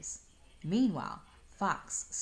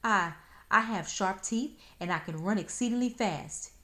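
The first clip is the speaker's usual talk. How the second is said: unsteady voice; 4 semitones higher, 6 dB louder than usual. Acted. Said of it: "his voice was real unsteady like".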